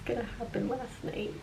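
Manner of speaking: whispering. Real, not acted. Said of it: "I have to whisper because".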